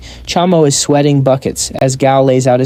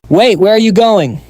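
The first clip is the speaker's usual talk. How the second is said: higher, lightly raised call; 6 semitones higher than usual. A narrator's reading. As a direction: call after them in mild alarm. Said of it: "he calls out".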